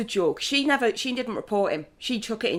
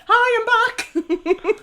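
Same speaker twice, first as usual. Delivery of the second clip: cheeky greeting; 13 semitones higher, slower than usual. Retold or imitated. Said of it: "he said his name".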